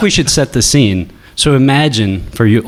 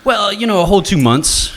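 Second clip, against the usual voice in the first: high voice; 8 semitones higher than usual. Shown as a demonstration. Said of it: "I thought it would sound more like this".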